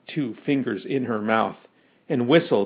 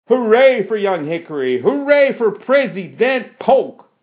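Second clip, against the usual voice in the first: high, rousing hooray; yelled cheer; 6 semitones higher, 3 dB louder than usual. A narrator's reading. Sarah rallies the crowd for the president, yelled cheer. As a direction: cheer it out, climbing higher. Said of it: "yelled Sarah".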